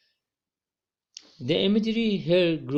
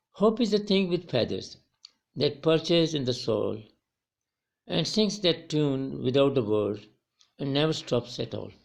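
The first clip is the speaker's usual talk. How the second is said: poem recitation. Shown as a demonstration. Teacher reciting stanza one to students, poetic reading.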